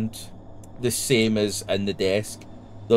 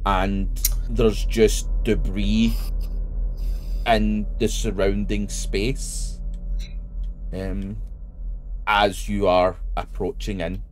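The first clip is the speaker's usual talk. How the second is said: measured scene setting with long pauses; game master narration. A narrator's reading.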